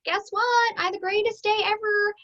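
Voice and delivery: put-on high, giddy greeting to girlfriends; playful high-pitched squeal of delight; acted excitement. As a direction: burst in with good news, hammed up. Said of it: "you walk in and you're like".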